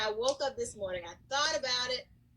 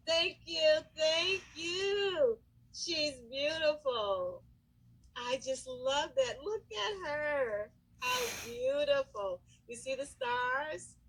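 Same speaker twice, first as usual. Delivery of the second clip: touched, teary; 3 semitones higher, slower than usual. Real, not acted. Moved by the angel gift.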